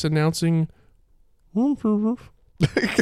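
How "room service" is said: high, slow, muffled ghostly call. Acted. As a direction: call it through the door, slow and eerie. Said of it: "What was that?".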